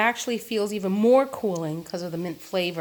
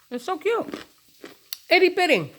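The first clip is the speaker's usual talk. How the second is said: cooing cute; 10 semitones higher than usual. Real, not acted. Cooing over tiny carrots.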